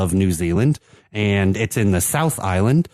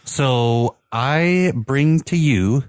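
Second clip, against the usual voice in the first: grand announcement; 2 semitones higher, slower than usual. Acted. Grand presentation of the beer.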